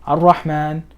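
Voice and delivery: Ar-Rahman begun on a clear A; initial alif pronounced. Shown as a demonstration. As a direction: sound the first vowel of Ar-Rahman. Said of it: "it's in the beginning of a sentence".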